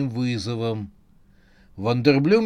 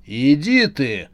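loud, slow exclamation; shouting; 5 dB louder, slower than usual. Acted. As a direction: throw it out angrily. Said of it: "вскричал кинобосс".

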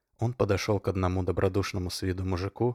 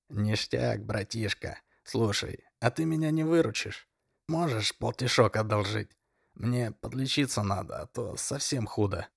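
put-on whiny hungover drunk; 3 semitones higher than usual. Drunk begging money.

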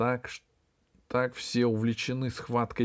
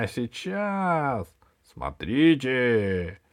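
drawn-out villainous threat, slowing at the end; gloating menace; 4 semitones higher than usual. Acted. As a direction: relish the threat, stretching the last words.

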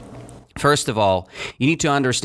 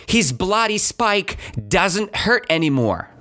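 story narration. A narrator's reading. Teacher reading a mini story to students, lively narration. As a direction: read the tale aloud to the class, brightly.

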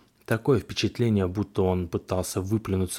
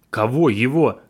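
panicked yell, higher and louder; 5 semitones higher, 7 dB louder than usual. A narrator's reading. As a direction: shriek it in fright. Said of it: "я завопил".

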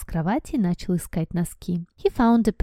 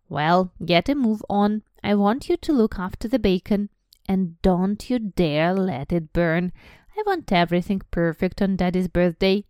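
bossy aunt; 3 dB louder than usual. Acted. Aunt scolding Harry.

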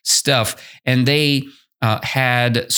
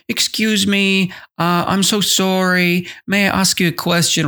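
higher, gentle polite request; teacher demonstrating a humble question, higher and gentle; humble asking; 7 semitones higher than usual. Shown as a demonstration. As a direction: ask as if afraid to bother. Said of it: "You're humble".

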